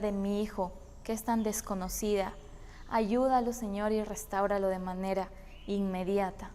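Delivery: soft, subdued plea to God; reverent prayer. A narrator's reading. Worried father prays for his sick son, quiet reverence. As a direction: pray gently and humbly, with reflective pauses. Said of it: "con mucha reverencia diciendo".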